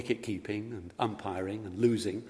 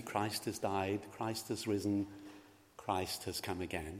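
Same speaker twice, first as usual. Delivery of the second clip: liturgy; 7 dB quieter than usual. Shown as a demonstration. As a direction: read it softly as the priest's prompt. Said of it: "Let us say it together".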